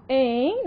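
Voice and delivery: "em" com terminação nasal; som nasal. Shown as a demonstration. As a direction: deixe o som de "em" terminar pelo nariz. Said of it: "o som da terminação é nasal". ("em" com final nasalizado)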